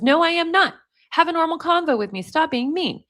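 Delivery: lightly acted, insistent girlfriend; mock indignant protest. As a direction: voice an argued text as a pleading objection. Reads girlfriend's texts in a quarrel.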